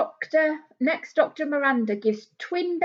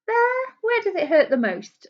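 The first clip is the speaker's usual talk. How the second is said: much higher, caring doctor voice; doctor asking gently; 10 semitones higher, 3 dB louder than usual. Acted. Doctor gently asking the girl where it hurts. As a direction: coax the child to show where it hurts. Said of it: "and she'll say".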